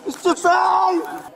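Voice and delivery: berserk rage. Real, not acted. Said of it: "Stop yelling".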